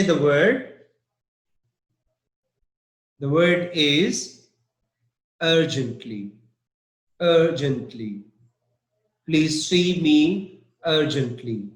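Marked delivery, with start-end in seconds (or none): 5.4-11.7 "urgently" with the beat on UR; stress on first syllable. Shown as a demonstration. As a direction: lean on UR in every "urgently". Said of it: "the stress is on U R".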